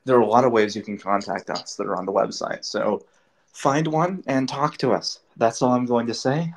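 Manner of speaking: talking while running out of breath; words pushed out, short of breath. Real, not acted. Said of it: "I'm running out of breath".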